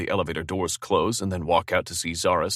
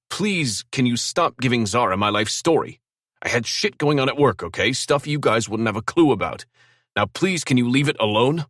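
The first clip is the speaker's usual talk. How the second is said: louder, higher, exasperated pleading; angry raised voice; 6 semitones higher, 6 dB louder than usual. Acted. Drew yelling at G to stop telling Zara his life story. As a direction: hold the yell through the whole plea. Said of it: "I yell".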